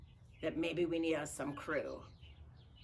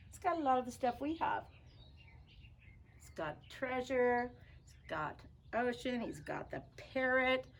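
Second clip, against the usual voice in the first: high puppet voice; 7 semitones higher than usual. Pretend. Puppet voice comments on book.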